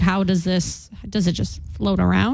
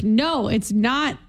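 slow, higher-pitched correcting quote; mock correction; 4 semitones higher, much slower than usual. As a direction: slowly imitate a fed-up correction. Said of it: "And you're like".

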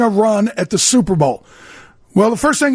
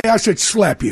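laughing mock threat. Player teasing Harry Carson about the Gatorade dunk, laughing. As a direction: tease him half laughing. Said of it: "I say".

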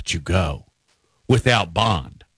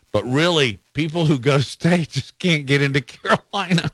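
laughing while reading; 5 semitones higher than usual. Real, not acted. Radio host reading a rival jab, laughing. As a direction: voice rises into a laugh. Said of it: "I can't read that without laughing".

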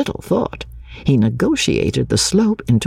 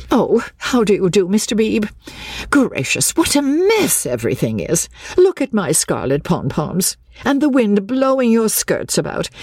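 high, agitated matron's complaint; shattered, flustered woman; 8 semitones higher than usual. A narrator's reading. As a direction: pour out your exasperation in a high voice. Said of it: "Missus Honeychurch was shattered".

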